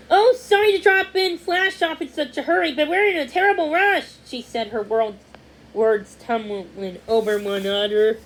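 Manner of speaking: high, loud, rushed woman's voice; hurried lady. A narrator's reading. Lady hurrying to drop off the puppy, rushed and high. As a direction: gush it all out in a flustered rush. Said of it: "The lady started talking fast".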